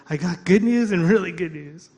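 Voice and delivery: excited announcement. Retold or imitated. Calling wife with good news.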